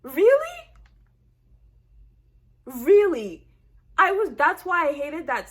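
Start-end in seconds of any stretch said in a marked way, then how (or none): 0.0-0.6 much higher, louder rising really; outraged fan; incredulous. Real, not acted. Outraged disbelief. 2.7-3.5 loud falling really; fed-up fan; flat outrage. Real, not acted. Repeated disbelief.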